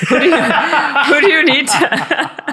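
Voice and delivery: high-pitched mock question breaking into laughter; joking imitation. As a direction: start imitating someone and crack up. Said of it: "Not to sound like you know who".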